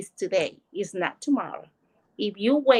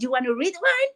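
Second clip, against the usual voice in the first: excited offer; 6 semitones higher, 5 dB louder than usual. Retold or imitated. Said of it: "And I was all excited".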